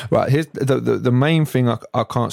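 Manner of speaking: tripping over the words; stuttering. Real, not acted. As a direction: stammer on the restart. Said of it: "sorry if I'm stuttering".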